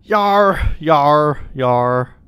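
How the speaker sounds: falling pirate yar. Acted. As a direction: growl yar like a sailor. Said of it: "my pirate lingo".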